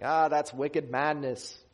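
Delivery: lightly put-on Boston accent; bad Boston accent. Preacher jokes to his congregation as a Boston person, mock Boston accent. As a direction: say it like a Bostonian, badly faked. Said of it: "like, Boston person talking".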